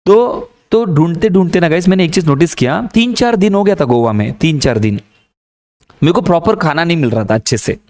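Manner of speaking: ordinary talk, nothing marked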